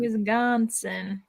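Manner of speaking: slow Wisconsin with a G sound; trying the Chicago Wis-GON-sin; Chicago pronunciation. Shown as a demonstration. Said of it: "I like that".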